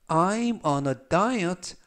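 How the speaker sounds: very slow, clear sentence; 아주 천천히 또박또박 읽기; slow reading. Shown as a demonstration. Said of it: "천천히 세 번씩 읽어드리고요". (따라 하도록 천천히 읽는 예문)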